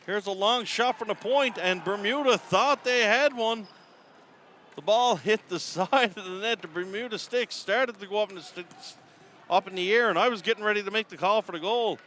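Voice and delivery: rising play-by-play excitement, then a laugh at the miss; excited call. Real, not acted. Near-goal call, crowd moment.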